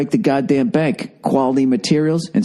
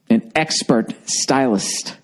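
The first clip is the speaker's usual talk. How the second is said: slow, lower, mocking repeat; 4 semitones lower, slower than usual. Shown as a demonstration. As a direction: drawl it out with scorn. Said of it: "You're assigned an expert stylist".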